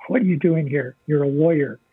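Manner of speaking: a lightly voiced stern inner voice; mild scolding inner voice, half-mocking; a hint of a stern conscience telling him off. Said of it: "And a voice says to me".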